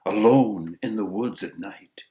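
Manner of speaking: slow, measured storyteller's verse; verse recitation. A narrator's reading. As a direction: recite it with lingering pauses. Recites an opening verse tale.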